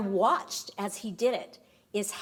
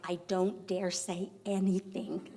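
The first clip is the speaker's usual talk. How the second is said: softer, cautious retold voice; scared husband; 2 semitones lower, 5 dB quieter than usual. Scared husband facing his angry wife, cautious. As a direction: lightly voice a husband treading carefully. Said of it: "he's scared, he's really scared".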